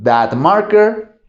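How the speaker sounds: "that marker" said very slowly; slow demonstration. Shown as a demonstration. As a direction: point far off as you say it slowly. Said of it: "lo que vas a usar es el mismo that". (despacio, marcador lejano)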